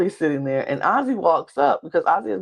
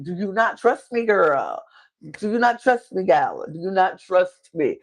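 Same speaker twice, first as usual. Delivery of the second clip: exasperated; 3 semitones higher than usual. Acted. Acting out Christian's exasperation.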